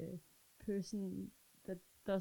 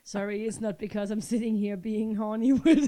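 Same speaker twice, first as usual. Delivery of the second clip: heavy breathing; 6 dB louder than usual. Real, not acted. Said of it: "you're breathing heavy".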